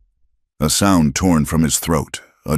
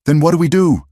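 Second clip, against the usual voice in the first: much higher, louder, strangled cry; choked out; 13 semitones higher, 5 dB louder than usual. A narrator's reading. Cal desperate after the screams, choked high cry. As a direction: force words through a tight throat. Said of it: "Cal choked out".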